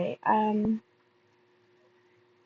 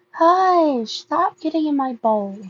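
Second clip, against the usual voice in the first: scolding the cat; 5 semitones higher, slower than usual. Real, not acted. Scolding the cat mid-reading.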